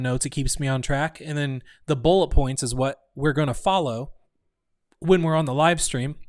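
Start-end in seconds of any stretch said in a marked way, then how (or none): 5.0-6.2 talking through hiccups; hiccuping. Real, not acted. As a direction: speak between hiccups. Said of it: "Sorry, I'm hiccuping".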